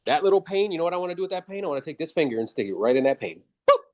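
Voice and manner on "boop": usual speaking voice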